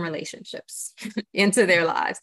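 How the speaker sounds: a brief laugh breaking into the phrase. Real, not acted. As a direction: let a small real laugh slip out mid-sentence. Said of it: "I'm laughing now".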